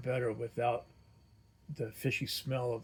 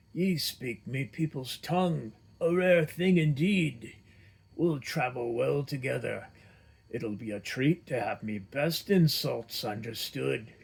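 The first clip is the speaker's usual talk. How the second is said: louder, excited dwarf barbarian; gruff dwarf, delighted; 6 dB louder than usual. Acted. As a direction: boom it out like a happy dwarf.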